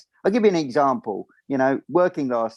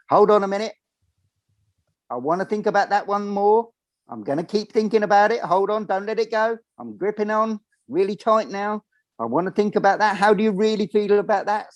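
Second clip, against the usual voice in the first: inner voice; 8 semitones higher than usual. Retold or imitated. Acting out the overthinking mind.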